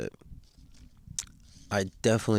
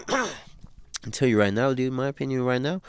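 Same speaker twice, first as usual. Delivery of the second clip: slightly higher, slowed put-on voice; high, serious official; 4 semitones higher than usual. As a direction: lightly imitate a solemn high-voiced dean. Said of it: "his high and serious Soto voice".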